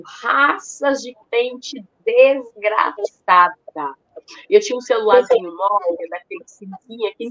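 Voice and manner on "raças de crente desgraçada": very slow, drawn-out mock yell out the window; retold yell. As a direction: stretch each word like a half-hearted yell. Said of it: "eu gritei bem alto".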